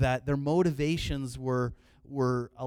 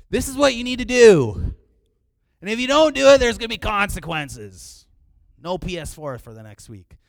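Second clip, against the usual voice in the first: loud, high scolding parent; stern parent yell; 8 semitones higher, 16 dB louder than usual. Retold or imitated. Parent yelling a threat at the kids. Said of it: "That's how I would say things as a parent".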